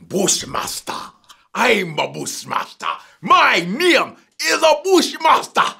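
slow, hammed-up Jamaican accent, swelling loud at the end; mock Jamaican accent. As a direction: introduce yourself in a put-on Jamaican accent. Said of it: "doing different Jamaican accent".

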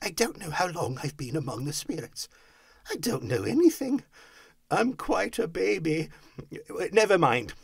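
high, carefree babble building to loud whoops; childlike elation; giddy Scrooge. A narrator's reading. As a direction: let it grow into a gleeful holler. Giddy Scrooge exclaiming, ends whooping.

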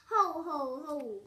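loud booming ho ho ho; mock villain laugh. Crocodile laughing at the other croc, loud mock laugh. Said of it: "cried the enormous crocodile".

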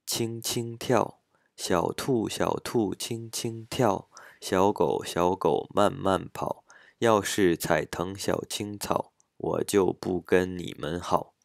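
slow, measured Mandarin verse with distinct tones; Chinese rhyme reading. Shown as a demonstration. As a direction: recite the rhyme line by line in an even beat. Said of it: "もう一回いきます". (中国語の童謡を拍に乗せてゆっくり朗読)

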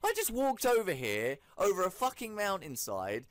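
high, loud, affronted comeback; hammed-up outrage, voice pitched right up; indignant outrage. Gamer snubbed by a game character after a long walk, indignant outrage.

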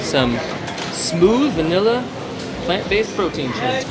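slow, smooth ad voice; ad read. Pretend. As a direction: sell it like a commercial. Selling vegan shake like an ad.

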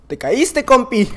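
usual speaking voice

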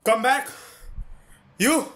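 high, loud disbelieving yell; shouting in disbelief; incredulous shout. Acted. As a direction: hurl the question back at her in outrage. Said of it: "Why did I shout that?".

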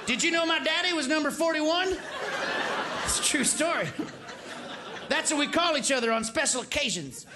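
lightly voiced presidential impression; a president stumbling over his own words; George W. Bush. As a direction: read a folksy letter from one president to the next. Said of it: "the letter from George W".

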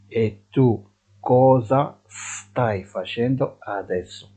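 slow, clear Italian model phrase; drawn out for learners to repeat; deliberate dictation pace; slow teaching model. Shown as a demonstration. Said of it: "teacher models slowly".

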